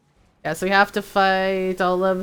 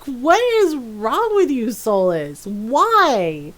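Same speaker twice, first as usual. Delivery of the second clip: mock exasperation; slower than usual. Player berates Solas for his insults, mock exasperation. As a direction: scold him in playful disbelief.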